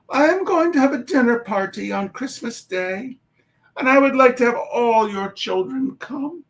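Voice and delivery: put-on a polite young girl inviting a family; little girl's letter. Girl's invitation letter read aloud.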